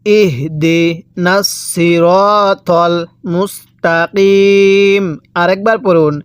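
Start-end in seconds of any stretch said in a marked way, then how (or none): 0.1-5.0 long drawn-out chanted recitation; ধীর তিলাওয়াত; slow Quran recitation. Shown as a demonstration. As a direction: lead the verse slowly, as a model. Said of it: "পড়ুন আমার সাথে".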